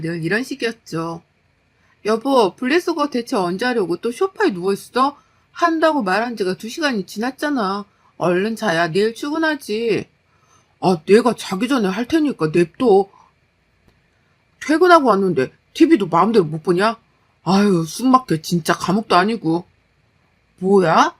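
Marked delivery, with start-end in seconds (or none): 2.0-10.1 mildly impatient nagging; nagging wife. Acted. Wife nagging husband on the sofa about recycling, impatient. 10.8-19.6 lightly voiced, irritated husband; grumbling husband. Husband on the sofa fending off his wife's nagging, grumbling.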